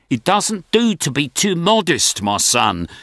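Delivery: put-on a lightly Jewish old gentleman's accent. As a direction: give Mr Levy a Jewish accent. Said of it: "this is my Jewish voice for Mister".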